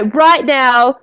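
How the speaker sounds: slow, emphatic imitation of her rant; retold angry warning. Friend warns of a coming meteor, retold angry warning. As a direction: drive each demand home slowly, mildly angry. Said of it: "she was angry in Russian".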